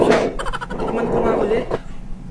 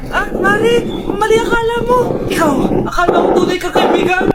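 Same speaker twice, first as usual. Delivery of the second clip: angry; 2 semitones higher than usual. Acted. Confronting friend.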